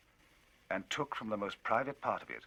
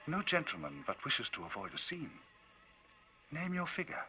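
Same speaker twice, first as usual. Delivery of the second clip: sneering coolness; 9 semitones higher than usual. Acted. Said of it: "with a kind of black, sneering coolness".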